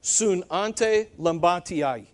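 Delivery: "Sunante lambatiai" sounded out slowly in parts; phonetic breakdown. Shown as a demonstration. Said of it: "break this down phonetically".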